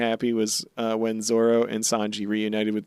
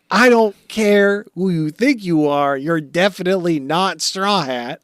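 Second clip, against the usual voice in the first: mock stern marine; 6 semitones higher than usual. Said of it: "he's like".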